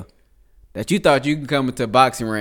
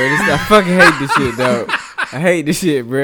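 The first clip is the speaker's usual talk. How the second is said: laughing exasperation. Real, not acted. Exasperated at story while laughing.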